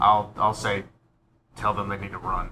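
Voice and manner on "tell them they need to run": low, quiet mutter under the breath. Speaking in character to another player: said under one's breath. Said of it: "I'll say kind of under my breath to you".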